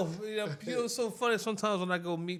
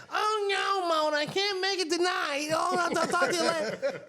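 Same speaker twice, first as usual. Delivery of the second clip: very high, loud exaggerated mock voice; hammed-up impression, pitched way up and loud; mimicking a mimic; 12 semitones higher, 7 dB louder than usual. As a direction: do a mocking, high-pitched take-off of someone's voice. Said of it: "she always used to mimic my voice".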